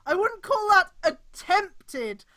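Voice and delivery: slow, loud disgusted commentary; drawn-out sarcasm. Real, not acted. Streamer mocking the fanfic's wording, drawn-out sarcasm. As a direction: drag each word out in disgust.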